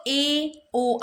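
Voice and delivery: ए and ओ said with lips half open; demo vowels. Shown as a demonstration. Teacher demonstrates ए, ओ to students. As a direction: sound out ए, ओ slowly and clearly. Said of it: "तो बोल के देखो".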